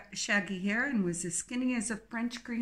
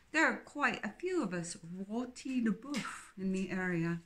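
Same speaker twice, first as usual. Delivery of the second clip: Philippa, cheery English twin. Acted.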